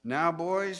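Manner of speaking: loud, high, emphatic pulpit delivery; pompous old preacher. Retold or imitated. Old preacher solemnly addressing the boys, loud and pompous. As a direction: build up steam, punching each phrase. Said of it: "with emphasis on each stroke of the pistons".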